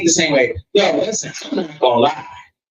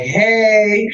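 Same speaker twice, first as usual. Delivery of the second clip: higher, casual innocent greeting; nothing happened; 5 semitones higher than usual. Retold or imitated. Texting his lady the next morning, innocently casual. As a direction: greet as if all is forgotten. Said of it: "like, nothing happened".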